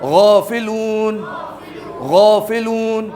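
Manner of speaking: غافلون slowly, the غ pressed from the upper throat; heavy throaty ghain. Shown as a demonstration. Teacher drilling the class on a gargled غ in غافلون. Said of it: "یہ حلق کے پہلے حصے پہ زور".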